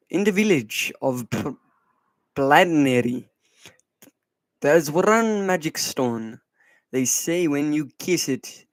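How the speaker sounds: slow poem reading in a shaky attempt at Irish; badly faked Irish accent. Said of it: "that was a bad Irish accent".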